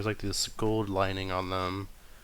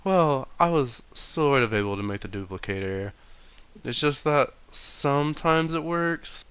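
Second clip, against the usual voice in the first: June's voice; 5 semitones higher than usual. Acted. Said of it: "June, she turns around".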